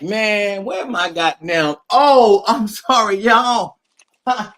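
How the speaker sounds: high startled yelp; sudden startled outburst. Retold or imitated. Retelling own startled reaction.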